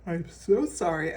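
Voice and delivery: talking through a yawn; stretched, yawny words. Real, not acted. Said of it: "I keep yawning".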